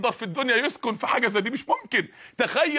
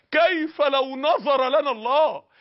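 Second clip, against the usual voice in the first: slow solemn question; 3 semitones higher, much slower than usual. Shown as a demonstration. Preacher asking sinners a grave question, very slow and solemn. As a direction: let each word of كيف لو نظر لنا الله hang in the air. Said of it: "انا بقولها".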